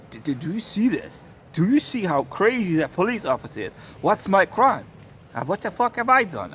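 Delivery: rising, indignant yelling at the officer; outraged protest. Retold or imitated. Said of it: "and I say to the woman".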